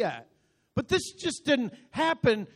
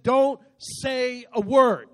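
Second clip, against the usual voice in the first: slow, emphatic order, louder; stern command; 2 semitones higher, 5 dB louder, much slower than usual. Acted. Joshua orders his silent army, slow stern command. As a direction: drive each word home slowly. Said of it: "He said".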